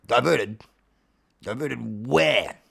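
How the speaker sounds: low, baffled cat character; Alfie. Acted. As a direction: echo it low, then stretch the question. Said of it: "Alfie says".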